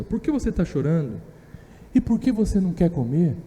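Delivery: a loving husband quietly asking why she cries; tender husband. Retold or imitated. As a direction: ask it softly, like a husband worried for his wife. Husband comforting his crying wife.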